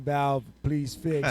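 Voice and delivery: slow, unbothered and even; deadpan calm request to customer service. Pretend. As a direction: say it like nothing is wrong at all. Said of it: "Like, very calm".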